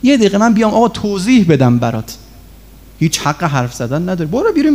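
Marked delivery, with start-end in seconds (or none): 0.0-2.2 a quick, pleading appeal; begging student. Retold or imitated. Student begging the teacher in the office, pleading quickly. 4.3-4.7 sharp order out. Retold or imitated. Teacher throwing student out.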